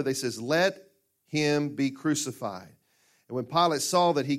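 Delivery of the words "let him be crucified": drawn out, slow and a touch louder; louder crowd cry. Acted. Preacher voicing the crowd crying even louder, slow and drawn out. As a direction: stretch out the crowd's demand. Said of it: "But then they cried even louder".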